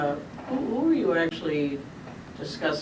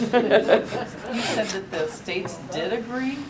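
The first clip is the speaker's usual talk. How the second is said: laughing; 4 semitones higher, 4 dB louder, much slower than usual. Real, not acted. Amused disbelief at a claim.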